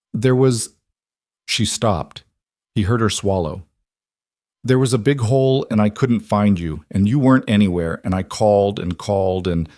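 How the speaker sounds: put-on small child's voice, shaky with a nightmare; a frightened six-year-old getting it out; upset little girl. Little girl tells her father about her nightmare, upset.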